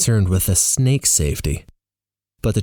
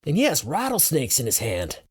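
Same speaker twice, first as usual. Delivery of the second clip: raised-pitch, held-back yell, softer; yelled from crowd; 6 semitones higher, 6 dB quieter than usual. A narrator's reading. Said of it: "someone else yells".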